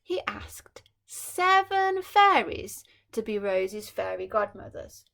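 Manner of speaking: whispered storytelling; breathy hush for suspense. A narrator's reading.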